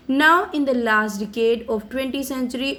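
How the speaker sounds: slow, careful read of a speech text; slow reading aloud. Acted. Teacher reading Mandela's speech to students, slow and careful. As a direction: read each English word slowly for the class.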